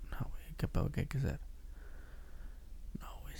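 whispered, hushed exchange; secretive whisper. Retold or imitated. Secretive exchange in retold story.

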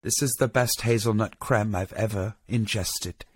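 mock praise in an even, unmoved tone; matter-of-fact judge. Judge praising a baker's hazelnut creme, imitated matter-of-factly. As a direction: imitate a judge giving nothing away. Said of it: "they have the same reaction".

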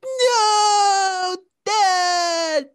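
high, loud whiny wail; emo Superman. Retold or imitated. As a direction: wail it like a melodramatic emo teen. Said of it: "It's like Superman was emo".

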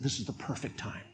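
low, soft and unhurried; a quiet, knowing voice of God; hushed voice of God. Acted. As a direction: speak it softly, as God watching.

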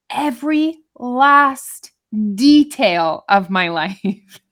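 "every last detail" slowly, word by word; drawn-out emphasis. Real, not acted. Telling her friend what keeps her awake, slow weary emphasis on "every last detail". Stressing her overthinking at night.

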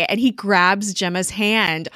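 ordinary delivery

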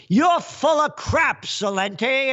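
high-pitched mocking yell. Fed chief yelling down a critic, high mock yell. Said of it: "who yelled".

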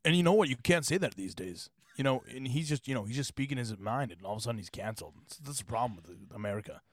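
mock-earnest podcast host ranting, lightly voiced; Joe Rogan impression. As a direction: complain about cancel culture like Rogan. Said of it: "what does Joe Rogan sound like?".

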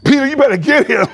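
a hint of a high Jesus through laughter; Jesus to Peter, laughing; laughing aside. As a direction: chuckle the warning out. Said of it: "Jesus started like".

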